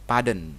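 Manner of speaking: "pardon" said as "padən", no R sound; non-rhotic pardon. Shown as a demonstration. Teacher showing students "pardon" without the R. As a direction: drop the R in "pardon". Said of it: "R-nya nggak dibaca ya".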